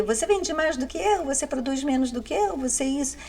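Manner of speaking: tom agudo de picuinha, de brincadeira; imitando briga infantil. Pretend. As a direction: imite uma criança reclamando, mais agudo. Imita briga infantil entre pessoas. (imitação de bate-boca infantil, em tom agudo)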